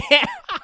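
high loud laugh; burst of laughter. Real, not acted. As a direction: break into a big laugh. Laughing at own joke.

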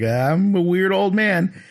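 high, slow, stretched comic voice; hammed-up weird old man. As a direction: draw it out like an odd old magician. Voices the Doctor after trick.

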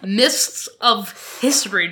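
drawn-out, mock-portentous "Mists of history"; slow, mysterious echo. Repeats the phrase slowly for effect.

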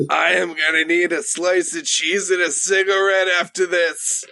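satisfied mouse. Acted. GM voices contented mouse.

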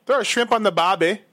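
put-on a shaky try at an Australian accent; mock Australian accent. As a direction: toss off the Australian cliché in a bad Aussie voice. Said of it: "How's that?".

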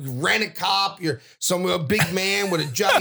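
mock indignant tirade at a guard; going off on the rent-a-cop; getting loud. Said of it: "and now I'm getting loud".

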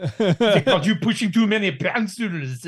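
put-on mixed Austrian-French comic accent; Arnold Schwarzenegger. Performing on a co-host's request, Austrian-French accent. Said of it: "do Arnie doing a French accent".

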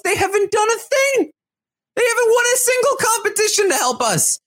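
high, hammed-up indignant shout; mock shout. Host acting Michael shouting about his alliance. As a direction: yell it at the camera in outrage. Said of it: "the rant".

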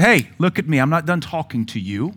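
put-on a firm dad telling off an inattentive kid; dad scolding kids who won't pay attention; stern parent scolding. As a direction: lay down the law to your children. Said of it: "When I deal with my children... I say".

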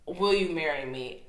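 low, soft proposal after a long pause; retold earnest proposal. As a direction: imitate a hushed, halting marriage proposal. Retold old man's marriage proposal.

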